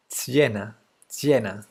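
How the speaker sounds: "Siena" with a ts-y onset, TSYEH-na; tentative pronunciation. Shown as a demonstration. Streamer unsure of a viewer's name, trying a foreign pronunciation. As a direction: try "Siena" as two syllables, TSYEH-na. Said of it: "I don't know how to say it".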